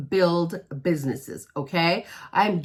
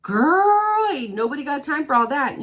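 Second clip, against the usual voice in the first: put-on sassy girl; 6 semitones higher than usual. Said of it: "If you're like".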